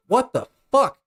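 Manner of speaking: high-pitched, baffled outburst; stunned disbelief. Acted. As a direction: voice leaps up in disbelief. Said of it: "a moment of just like".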